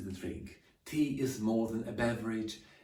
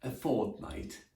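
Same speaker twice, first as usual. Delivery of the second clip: 1 slow careful model; slower than usual. Shown as a demonstration. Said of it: "more commonly used".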